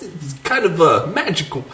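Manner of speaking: halting, hesitant impression; Christopher Walken. Co-host riffing on a lewd joke, Walken-like halting voice. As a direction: pause oddly before the last word, amused. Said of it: "you turned into Christopher Walken".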